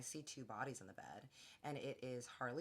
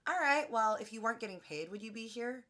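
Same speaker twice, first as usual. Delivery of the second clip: loud, much higher pointed question; confrontational challenge; 9 semitones higher, 10 dB louder than usual. Retold or imitated. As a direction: call her out sharply in front of everyone. Confronting the nanny at dinner.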